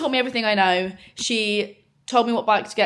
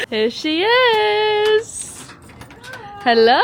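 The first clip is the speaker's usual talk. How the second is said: excited greeting; 10 semitones higher, 7 dB louder, much slower than usual. Real, not acted. Arriving to greet her friend.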